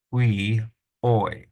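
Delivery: "we, oi" in two separate, loud syllables; stressed syllable. Shown as a demonstration. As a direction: sound out "we, oi" firmly, syllable by syllable. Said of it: "we're gonna stress the syllable".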